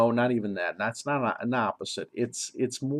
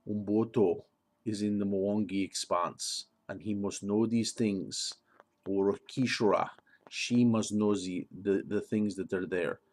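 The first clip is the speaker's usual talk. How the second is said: attempted Mwangi accent; 2 semitones lower than usual. Shown as a demonstration. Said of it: "I'm not perfect in my accent".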